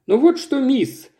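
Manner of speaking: put-on high creaky old woman's voice. A narrator's reading. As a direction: rasp it out, sharp and high. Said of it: "скрипучий голос".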